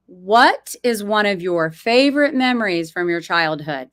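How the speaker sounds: whisper. Acted. Reading a question aloud, whispered.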